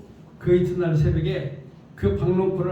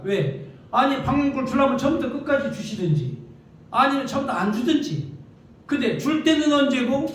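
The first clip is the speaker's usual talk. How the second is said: mildly indignant, raised-pitch complaining; acted angry protest; 3 semitones higher than usual. Jonah losing his temper at God, acted indignant protest. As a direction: argue back as an aggrieved prophet. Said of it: "하나님 하고 이제 승질을 낸 거예요".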